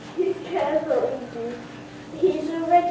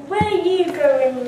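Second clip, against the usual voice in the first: louder, calling after them; loud challenge; 5 dB louder than usual. Acted. Tax collector stopping the marching peasants, loud challenge. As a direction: stop them in their tracks.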